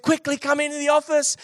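high, excited retold urging; joyful excitement. Boss urging young employee into the office, retold with excitement. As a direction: call someone in, bursting with good news. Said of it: "with the biggest smile".

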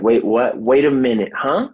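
stunned disbelief. Retold or imitated. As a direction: caught off guard, huh jumps way up. Retelling doctor's termination advice.

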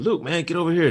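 a lightly voiced R2-D2 calling out; R2-D2 calling Luke. R2-D2 calling Luke over to the ship, high mock call. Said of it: "basically calling Luke and saying".

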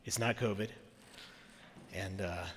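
rough raspy voice from a cold; hoarse, getting over a cold; smoker's voice. Real, not acted. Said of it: "I have this wonderful smoker's voice".

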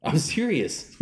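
exaggerated Southern country accent; dumb country accent. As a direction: lay on a hick drawl. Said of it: "I'm doing a dumb country accent".

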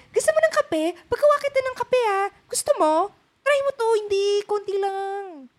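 high, loud mock offer of coffee; teasing high-pitched impression of a friend offering coffee; impersonating cohost. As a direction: mimic her pushing coffee on you, way up high. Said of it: "Is that your impersonation of me talking?".

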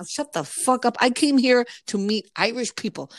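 playfully fed-up rant; exasperated retort. Retold or imitated. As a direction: snap back at annoying tourists. Mock retort to American tourists.

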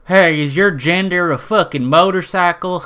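hammed-up redneck heckler; mock redneck. Redneck TikToker taunting liberals about gender, mock redneck. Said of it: "like, redneck TikToks".

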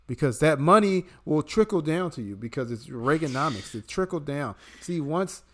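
mock smug patriot defending billionaires; sarcastic pro-billionaire. Mocking billionaire fans to Brian, sarcastic smug believer. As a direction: play the true believer straight-faced and smug. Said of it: "people who say shit like this".

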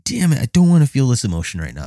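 high, fast, whiny complaint; fake protest. Fan fighting tears at the funeral, high and fast. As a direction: rush it out in mock protest.

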